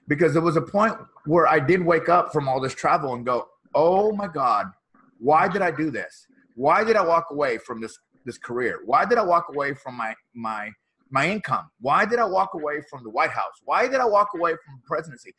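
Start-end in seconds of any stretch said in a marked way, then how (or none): 3.8-15.3 mock panic. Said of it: "That's what's going through my head".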